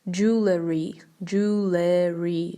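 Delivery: jewelry as JOO-luh-ree, the L moved forward; drawn-out JOO-leh-ree for jewelry; common mispronunciation. Shown as a demonstration. Teacher showing how people get jewelry wrong, mispronounced as joo-luh-ree. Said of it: "Его неправильно произносят так".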